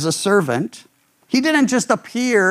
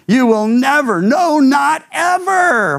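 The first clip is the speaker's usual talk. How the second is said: emphatic refusal; 4 semitones higher than usual. Retold or imitated. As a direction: shout it, stretching "not ever". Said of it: "one of the translations says".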